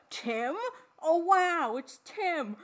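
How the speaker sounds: lightly voiced campy surprise; a light hint of Bub; Bub impression. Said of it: "I was cracking the fuck up".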